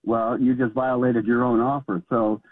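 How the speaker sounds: usual speaking voice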